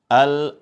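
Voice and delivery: Al-alamin with a clear ain, not a glottal hamzah; clear ain sound. Shown as a demonstration. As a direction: articulate the ain in Al-alamin from the throat. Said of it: "Huruf ain. Jangan sampai tertukar dengan huruf hamzah".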